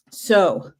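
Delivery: breathless from running around; out of breath. Real, not acted. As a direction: catch your breath between words. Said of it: "I'm a little out of breath".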